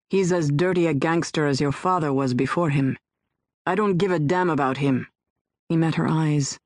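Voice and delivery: a hard man turning sincere; lightly voiced tough man. Andre voiced by narrator.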